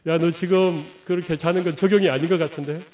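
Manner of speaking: calm, gentle correction; gently. Retold or imitated. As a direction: say it mildly, like a polite suggestion. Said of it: "이렇게 점잖게".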